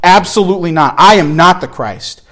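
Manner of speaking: firm, emphatic retold refusal; emphatic denial. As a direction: shut the question down firmly, as if quoting. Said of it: "he's gonna emphatically say".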